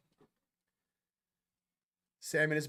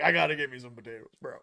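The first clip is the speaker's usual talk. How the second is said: eager; 4 semitones lower, much faster than usual. Retold or imitated. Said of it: "I was like".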